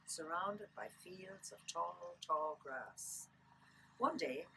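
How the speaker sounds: lilting Irish storyteller reading aloud; story narration. Acted. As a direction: read a children's book aloud, lilting Irish. Reads picture book aloud.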